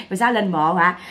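words tumbling out of a laugh; laughing question. Real, not acted. Streamer teasing about the grave visit, laughing question. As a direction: ask through chuckles.

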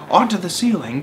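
high, incredulous little monkey; small monkey crying out. A narrator's reading. Small monkey questions his dad's order, crying out. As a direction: squeak the question in disbelief. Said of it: "cried one of the small monkeys".

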